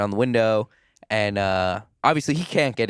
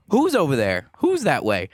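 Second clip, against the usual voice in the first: raised, insistent questions; mildly alarmed mock questioning; 3 semitones higher, 3 dB louder than usual. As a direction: act out her startled demand to know. Acting out her alarmed questions.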